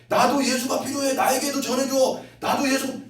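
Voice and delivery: high pleading voice of a longing soul; soul's plea. Retold or imitated. Preacher voicing the soul inside the grandmother, pleading high. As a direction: beg like a hidden soul crying out. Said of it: "그 영혼의 소리가 들리는데".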